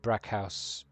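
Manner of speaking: Brackhaus with a German ch, brack-house. Shown as a demonstration. GM settles how the dragon envoy's name sounds, German. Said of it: "Brackhaus or Brachus?".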